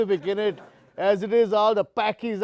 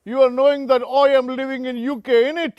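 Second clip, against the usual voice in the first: put-on cheeky Punjabi-Brit accent, calling him mate; a London-Punjabi lad saying oi and innit; British Punjabi accent; faster than usual. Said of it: "celebrating this victory in great style".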